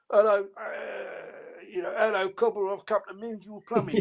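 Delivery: a lightly voiced Cockney workman; cheery Cockney plumber at the door. Imitating the Cockney character from old films, light Cockney. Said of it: "a Cockney guy".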